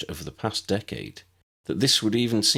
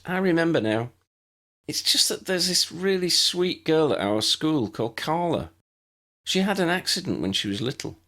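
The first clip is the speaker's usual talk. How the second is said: put-on higher, earnest young girl voice; a muggle girl eagerly explaining; Lydia, young girl; 9 semitones higher than usual. Lydia tells Tessa about her friend, earnest higher girl voice.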